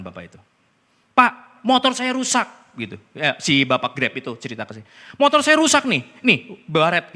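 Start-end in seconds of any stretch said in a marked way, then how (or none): 1.1-2.5 high, raised-voice mock complaint; imitating a loud, protesting motorist; retold complaint. Driver complains after being hit. 5.2-7.1 high, loud mock grievance; raised-voice imitation of a complainer; retold complaint. Driver repeats his complaint.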